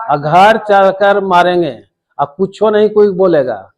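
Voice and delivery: imitated threat, pitched a bit up; retold threat. Victim retells threat made to wife and son, mildly menacing. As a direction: quote the bully's threat with some force. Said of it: "बिल्कुल धमकी दे रहा है".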